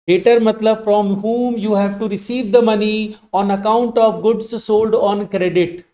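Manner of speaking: very slow, word by word, for writing down; slow dictation. Shown as a demonstration. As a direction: dictate it slowly so students can copy. Teacher dictates definition again. (धीमे-धीमे लिखवाना)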